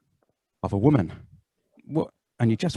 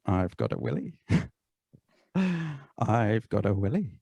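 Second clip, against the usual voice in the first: hushed awe; 3 semitones lower, 9 dB quieter, slower than usual. Pretend. Pretend man whispering in wonder.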